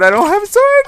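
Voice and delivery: very high squeaky panicked wail; mock panic. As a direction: squeal it like a terrified kid. Zombie appears, no sword.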